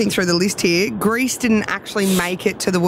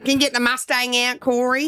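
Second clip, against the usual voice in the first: put-on ocker Australian, pitched up; broad Aussie accent; 5 semitones higher than usual. Caller posing as a Cornubia local, broad higher Aussie accent. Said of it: "Cornubian accent".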